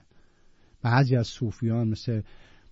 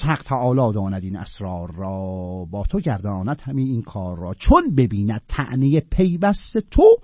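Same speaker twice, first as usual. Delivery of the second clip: louder verse recital, slowing on the close; poem recitation; 4 dB louder than usual. Acted. Teacher reciting the whole Sufi passage, declaimed recital. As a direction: chant the couplets with weight.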